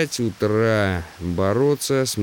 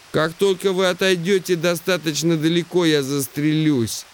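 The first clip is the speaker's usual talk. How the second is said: raised, high-pitched voice of a deafened man; 7 semitones higher than usual. Acted. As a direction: speak up over your own deafness. Deaf Simmons giving up.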